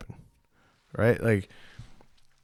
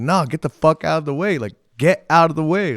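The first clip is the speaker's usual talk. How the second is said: retold yell; 5 semitones higher, 4 dB louder than usual. Bouncer yelling at drunk man.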